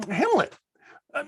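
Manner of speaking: usual speaking voice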